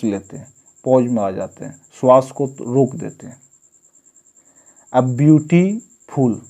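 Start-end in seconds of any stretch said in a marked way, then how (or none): 4.9-6.4 ब्यूटीफुल said slowly with a pause after ब्यूटी; syllable pause in ब्यूटीफुल. Shown as a demonstration. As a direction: draw out ब्यूटीफुल, ब्यूटी then a beat, then फुल. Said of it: "ब्यूटी के बाद जो होता है pause आ जाता है".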